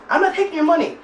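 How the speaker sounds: high-pitched mock protest; acted refusal. Storyteller imitating boyfriend turning down drunk guy's cash, protesting.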